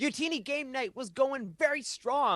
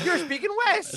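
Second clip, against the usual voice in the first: high, laughing Southern twang; mock country accent; 10 semitones higher than usual. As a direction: tease back in a twangy voice.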